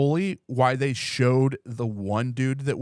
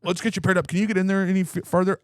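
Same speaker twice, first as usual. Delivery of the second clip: higher, lightly voiced helpful doll; pairing sex doll; 5 semitones higher, faster than usual. Sex doll guiding owner through pairing, helpful. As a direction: coax him along as a pretend doll.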